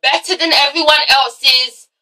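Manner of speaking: words spaced out, slow and deliberate; slow, pointed complaint. Real, not acted. Vlogger ranting about Golden, slow and deliberate. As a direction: drag each phrase out in irritation. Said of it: "slow emphatic complaint".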